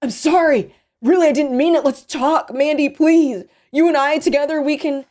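high, loud, desperate apology; frantic pleading. Acted. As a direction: beg urgently for your life. Captive begs for his life.

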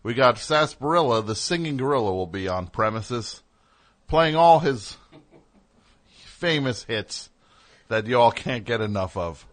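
hammed-up Atlanta radio promo. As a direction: oversell it like a club DJ. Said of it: "So you'd be like".

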